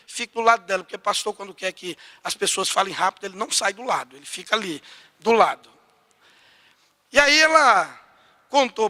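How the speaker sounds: normal talking voice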